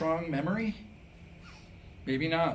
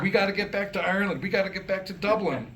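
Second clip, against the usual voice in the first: laughing mock lament; 4 semitones higher, 3 dB louder, faster than usual. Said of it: "Every year it'd be the same song".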